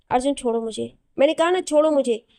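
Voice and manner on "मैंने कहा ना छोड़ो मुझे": louder and higher, repeating the demand; angry insistence. Acted. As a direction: raise the voice, she has said it already.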